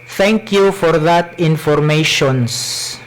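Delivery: heavy Cebuano-accented English. Shown as a demonstration. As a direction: read it in thick Bisaya English. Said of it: "I will speak in my Cebuano accent".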